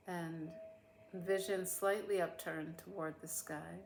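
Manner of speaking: unhurried meditation voice with long pauses; guided meditation. Real, not acted. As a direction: guide listeners gently through a body scan, leaving space after each phrase.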